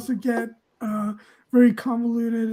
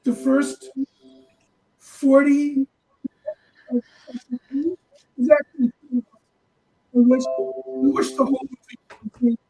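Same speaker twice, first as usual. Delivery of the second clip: underwater. Real, not acted. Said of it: "you sound like you're underwater".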